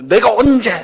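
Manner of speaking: high indignant snap back; offended partner snapping back in anger; angry retort. Retold or imitated. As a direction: flare up defensively. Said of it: "버럭 화가 나요".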